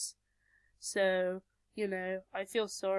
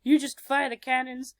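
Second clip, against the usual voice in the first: louder, fast orders on the run; urgent orders; 6 dB louder than usual. Retold or imitated. Louise rushes past giving louder fast orders. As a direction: bark it out while running past. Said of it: "Louise runs past and is like".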